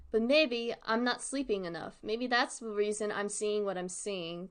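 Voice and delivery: steady, lightly voiced horror reading; story narration. A narrator's reading. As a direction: read the diary entry to the audience. Reads the story aloud.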